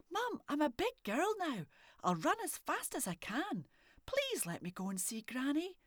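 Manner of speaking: put-on high whining little girl. A narrator's reading. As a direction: wheedle like a child who wants her way. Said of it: "she whined".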